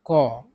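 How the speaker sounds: British "कॉ" with the R silent; British pronunciation. Shown as a demonstration. Teacher explaining British English, "कॉ" with silent R. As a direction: say "कॉ" as an open vowel, no R. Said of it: "तो इसका उच्चारण क्या हो जाएगा".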